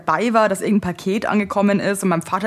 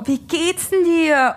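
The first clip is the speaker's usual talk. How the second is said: cheery stranger; 8 semitones higher, much slower than usual. Retold or imitated. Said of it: "Und sie so".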